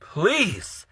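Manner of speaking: pleading prayer. Real, not acted. Vlogger praying aloud to God for relief, desperate pleading. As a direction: ask God why, begging. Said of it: "I'm like, Lord".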